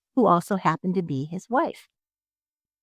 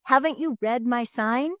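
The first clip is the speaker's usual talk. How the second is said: higher, louder shout of refusal; 7 semitones higher, 4 dB louder than usual. A narrator's reading. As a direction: shout it up at him from the window. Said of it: "Doctor DeSoto shouted".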